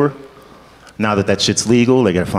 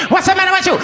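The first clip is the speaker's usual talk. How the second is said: very high, cartoon Italian accent; mock Italian accent; faster than usual. Actor whose audition accent went downhill, mock Italian. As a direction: blow it up into a hammed-up Italian accent. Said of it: "not sure where the Italian comes from".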